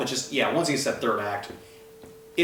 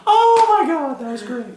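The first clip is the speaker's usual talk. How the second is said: high, loud laughing exclamation; laughing oh my god; 14 semitones higher, 4 dB louder than usual. Real, not acted. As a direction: gasp it out mid-laugh. Overcome with laughter.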